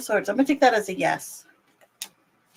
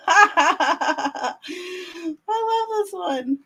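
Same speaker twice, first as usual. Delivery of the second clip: gushing; 8 semitones higher, much slower than usual. Real, not acted. Gushing over cute card.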